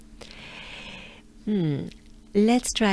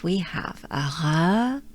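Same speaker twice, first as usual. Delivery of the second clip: whisper. Real, not acted.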